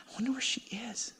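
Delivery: fast, breathless whisper to himself; hushed fretting thought; anxious whisper. Retold or imitated. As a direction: worry under your breath, quickly.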